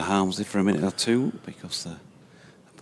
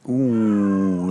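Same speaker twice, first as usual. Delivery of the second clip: surprised ooh; 3 semitones higher, 8 dB louder than usual. Real, not acted. Near miss outside off.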